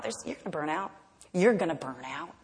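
fading taunt. Retold or imitated. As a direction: let the jeer fade into a murmur. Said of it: "taunting quote".

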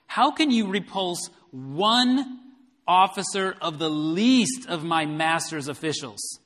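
slow, lifted taunt of a scornful envoy. Retold or imitated. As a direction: sneer it out slowly as a boastful envoy. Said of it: "he taunts them some more".

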